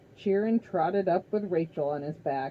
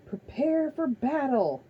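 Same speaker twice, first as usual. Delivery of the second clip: high, loud, slow battle cry; rally the army; shouted command; 8 semitones higher, 4 dB louder than usual. A narrator's reading. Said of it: "He turned to the armies and shouted".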